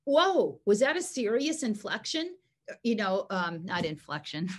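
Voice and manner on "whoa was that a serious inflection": higher-pitched mock surprise; a hint of an alarmed dog checking in; startled dog. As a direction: lightly voice a taken-aback dog. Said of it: "I want them to go".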